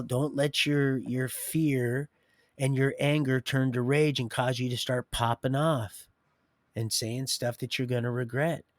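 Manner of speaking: preaching. Real, not acted. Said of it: "I can just start preaching".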